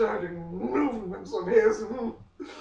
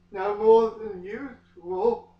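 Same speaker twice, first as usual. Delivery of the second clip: breathless answer; 2 semitones higher, 5 dB louder, slower than usual. Acted. Bella answers Edward.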